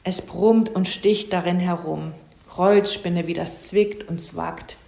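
mildly hammed-up moaning about pain; play-acted whimpering complaint; theatrical wailing. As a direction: feign a bellyache, complaining in broken phrases. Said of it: "und jammerte".

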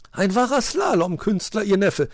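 loud, high-pitched admiration; enthusiastic. A narrator's reading. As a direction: gush with praise. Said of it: "war Frau Elster begeistert".

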